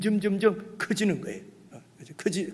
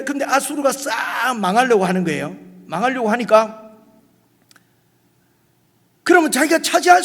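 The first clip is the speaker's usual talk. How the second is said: louder, higher preaching voice building up the story; fiery preaching; 6 semitones higher, 7 dB louder than usual. Acted. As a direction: preach it with rising fervour to the congregation. Preaching history at full force. (목소리를 높여 열정적으로 설교)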